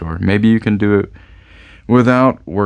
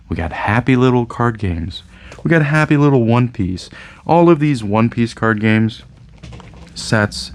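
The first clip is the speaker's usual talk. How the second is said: Bob Ross voice; 2 semitones higher than usual. Retold or imitated. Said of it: "keep my voice very, very monotone".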